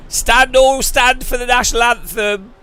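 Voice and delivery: mock announcer. Mocking the pre-race anthem call, pompous announcer.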